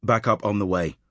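flat robotic phone voice; like a robot over the phone line. Acted. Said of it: "someone who sounds like a robot".

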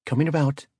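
high, loud call. A narrator's reading. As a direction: call it out over the bridge noise.

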